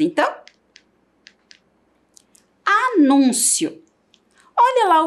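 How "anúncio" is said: palavra destacada. Shown as a demonstration. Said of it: "lê o verbete".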